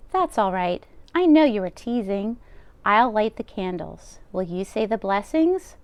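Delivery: bustle like a kind deaf baba; old grandmother voice. Acted. Baba voicing lines to Bear.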